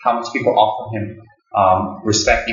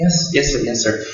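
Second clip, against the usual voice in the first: humble reply; 4 semitones higher than usual. Retold or imitated. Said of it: "how humble Dalai Lama is".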